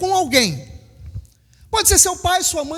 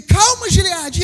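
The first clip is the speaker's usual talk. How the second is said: raised, louder call of calma; 4 semitones higher, 4 dB louder than usual. Retold or imitated. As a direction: call after a toddler racing off in the walker. Parent calling after running toddler.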